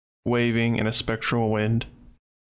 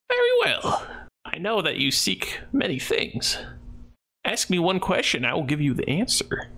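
higher, eerie spirit speaking; high ghost voice; 6 semitones higher than usual. Acted. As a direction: answer like an ancient spirit.

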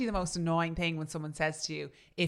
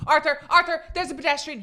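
louder, higher fussy warning; Hyacinth-style nagging; 9 semitones higher, 10 dB louder than usual. Retold or imitated. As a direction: fret like Hyacinth Bouquet. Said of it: "You're like her in the car".

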